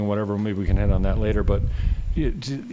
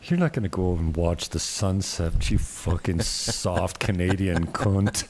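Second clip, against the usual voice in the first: lower, lightly attempted Manchester accent; bad Manchester accent; 4 semitones lower than usual. Friend teasing the Canadian about watching the sunset, bad Manchester accent. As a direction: have a go at a Mancunian insult. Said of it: "I do a bad Manchester accent".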